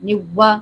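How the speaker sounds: "نوا" with w replacing the r; wrong waw sound. Shown as a demonstration. Teacher shows a sound to avoid, w in "نوا". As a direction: leave out the r, round into "نوا". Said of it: "یہ نہیں sound آنے دینی".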